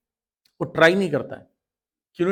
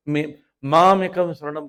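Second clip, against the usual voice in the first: मामेकं drawn out and louder; stress on मामेकं; 5 dB louder, slower than usual. Shown as a demonstration. Teacher questions why Krishna said it, मामेकं stretched out loud. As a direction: lean slowly and firmly on मामेकं. Stresses the scripture's own word.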